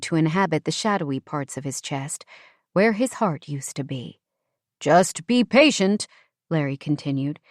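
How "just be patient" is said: slow, oily condescension; a touch of smarmy patience; patronizing, ingratiating. Acted. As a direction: talk down sweetly, like soothing a child. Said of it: "his tone at once patronizing and ingratiating".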